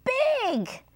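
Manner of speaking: high, dramatic mouse warning; high-pitched build-up to a big reveal; storybook mouse. A narrator's reading. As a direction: stress each trait in a high mouse voice. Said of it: "said the mouse".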